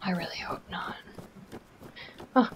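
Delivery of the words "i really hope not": soft, whispery, halting; hushed wariness. Real, not acted. Player eyeing where bad guys would live, hushed. Creeping into a sketchy place.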